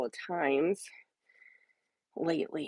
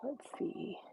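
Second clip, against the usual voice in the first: whispering; 16 dB quieter than usual. Real, not acted. Muttering while scrolling settings.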